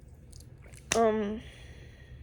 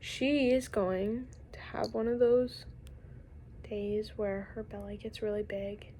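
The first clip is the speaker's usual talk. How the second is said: fearful whisper; 5 dB quieter than usual. Real, not acted. Confessing her fear of the dog's seizure in a whisper.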